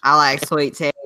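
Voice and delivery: Southern twang, played for fun; Southern accent. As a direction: slip into a put-on Southern voice. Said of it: "I've been doing my Southern voice".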